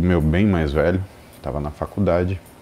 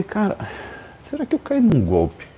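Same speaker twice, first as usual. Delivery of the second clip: incredulous; 10 semitones higher than usual. Real, not acted. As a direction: wonder aloud if you got scammed. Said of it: "disbelief at the hospital". (contando a suspeita do golpe, incrédulo e agudo)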